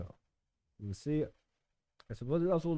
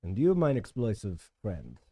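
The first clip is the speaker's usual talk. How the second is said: put-on German accent; 2 semitones lower, 4 dB louder, slower than usual. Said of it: "talk in a German accent".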